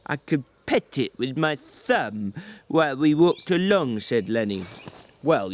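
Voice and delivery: a weary ranch hand berating his companion; George, exasperated. Acted. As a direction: snap at him like a fed-up older brother. George scolds Lenny.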